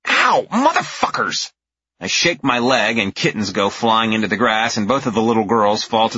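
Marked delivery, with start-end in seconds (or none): 0.1-1.5 pained yelp. A narrator's reading. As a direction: yell as claws dig in. Attacked by kittens.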